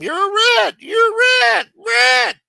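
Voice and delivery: high, loud imitated crowd yell; mock screaming. Neighborhood boys yelling at the mobster, high loud mock yell. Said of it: "So they're screaming at him".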